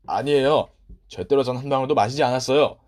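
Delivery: loud, insistent denial; loud protest. Acted. Boy loudly denying he drank the tea. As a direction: protest his innocence hard.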